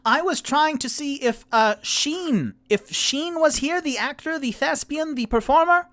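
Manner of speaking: very high, loud strained call; shouting to be heard. Acted. Rock shouting his request at the woman. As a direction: belt it so the deaf woman hears. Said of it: "And then Rock goes".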